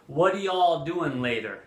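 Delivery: lightly voiced Southern y'all; a hint of the American South; mild Southern-accented question. Shown as a demonstration. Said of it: "what they might say in the South".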